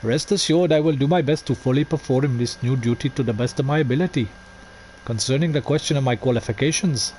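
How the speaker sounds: light mock Indian accent, drifting toward Scottish; a half-hearted Indian accent slipping into Scottish. Streamer reads the letter, mock Indian accent slipping Scottish. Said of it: "it goes into Scottish a little bit".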